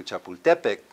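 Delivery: "Chapultepec" with the weight on TE; Nahuatl stress. Shown as a demonstration. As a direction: say "Chapultepec" as cha-pul-TE-pec. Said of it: "ask a taxi driver to take you to".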